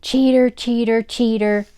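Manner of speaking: loud, high accusing shout. Acted. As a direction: chant it like an angry child. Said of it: "kicked at the door and shouted".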